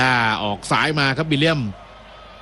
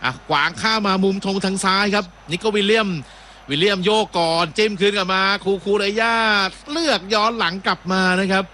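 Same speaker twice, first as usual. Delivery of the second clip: steady, higher-pitched match commentary; live play-by-play; 6 semitones higher than usual. Real, not acted. Commentator following a move down the left wing, raised play-by-play voice. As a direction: follow each pass with a lifted voice.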